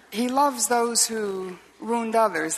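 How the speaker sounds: slow, weighty stress on loves; slow sermon emphasis on loves; slow emphatic. Real, not acted. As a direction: lean on each word, slowly. Key sermon point.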